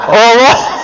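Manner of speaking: sheepish laugh through the words. Real, not acted. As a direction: laugh it off awkwardly. Awkward reply, laughing.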